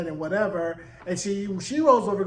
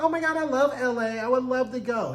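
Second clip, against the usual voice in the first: high-pitched imitation of eager gushing; lightly hammed-up excitement, pitched up; mock gushing; 5 semitones higher than usual. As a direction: act out a wistfully thrilled woman. Voices a woman gushing about LA.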